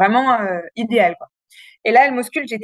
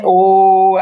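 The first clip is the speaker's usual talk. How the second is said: retold cry; 3 semitones lower, 7 dB louder than usual. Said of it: "Je criais".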